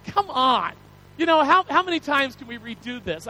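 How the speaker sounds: mildly exasperated inner protest; acted exasperation. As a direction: protest as if fed up with hearing it. Acts out his exasperated thought.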